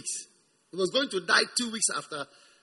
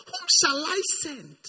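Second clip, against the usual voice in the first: voice of God; 9 semitones higher, 4 dB louder than usual. Acted. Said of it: "He said".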